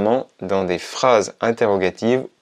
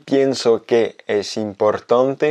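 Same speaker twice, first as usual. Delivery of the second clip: slow, careful, ending on a rise; slow demo; slower than usual. Shown as a demonstration. Teacher reading a clear example slowly. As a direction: read it out slowly. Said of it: "deux exemples très précis".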